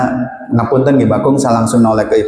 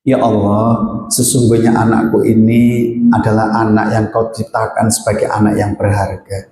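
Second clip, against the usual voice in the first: heartfelt prayer. Shown as a demonstration. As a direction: pray humbly, letting go. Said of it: "Saya ulangi". (doa tulus yang pelan dan khusyuk)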